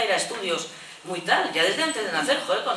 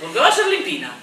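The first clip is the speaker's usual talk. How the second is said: laughing indignant question, higher and louder; 8 semitones higher, 5 dB louder, faster than usual. Real, not acted. Teacher laughing at the stereotype she mocks. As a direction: laugh through the outrage.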